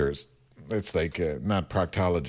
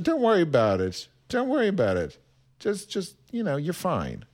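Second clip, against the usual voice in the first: higher voice, softening toward the end; mock reassuring; 6 semitones higher than usual. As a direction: imitate a teacher soothing a student. Retold teacher reassuring a student.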